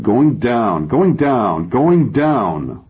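anguished repeated wail, pitched high; acted tearful, high-pitched chant; crying. A narrator's reading. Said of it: "now I'm really crying".

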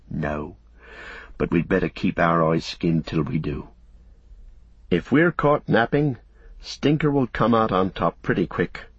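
lightly voiced devoted servant, protective; a hint of a loyal companion keeping watch; understated, earnest servant's voice. Narrator voices Sam, the loyal servant.

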